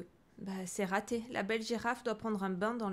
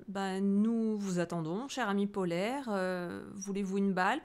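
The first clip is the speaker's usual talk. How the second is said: lion voice. Acted. Lion speaks to seal.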